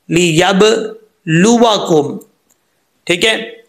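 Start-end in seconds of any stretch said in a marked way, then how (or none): 0.1-2.2 लियबलुवकुम very slow, b released with a bounce; echoed baa. Shown as a demonstration. Teacher demonstrating qalqalah on baa, slow bouncing articulation. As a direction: break after the echoing b in लियबलुवकुम. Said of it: "कलकला करके पढ़ेंगे".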